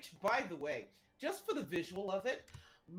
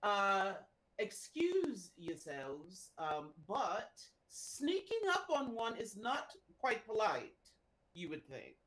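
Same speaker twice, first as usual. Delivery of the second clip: haughty warrior; 2 semitones higher than usual. Acted. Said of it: "bend over and say".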